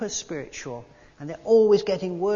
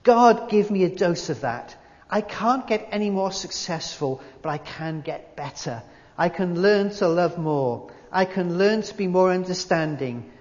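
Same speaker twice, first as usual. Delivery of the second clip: Hollywood star praying; 4 dB louder than usual. Retold or imitated. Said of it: "imagine I'm some big Hollywood dude now".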